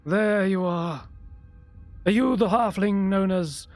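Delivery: put-on an old mage singling out his quarry; old wizard voice. Old wizard confronts the halfling.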